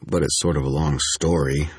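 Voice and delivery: "story" slightly set apart as bait; understated emphasis on the final word "story"; subtle stress on STORY. A narrator's reading. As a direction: lean lightly on "story". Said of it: "I dropped a subtle emphasis on that last word".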